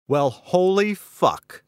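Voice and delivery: high, loud, drawn-out shout of disbelief; slow, high shocked outburst; astonished cry. Acted. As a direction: yell it from the next room, stunned. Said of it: "came the cry from the bedroom".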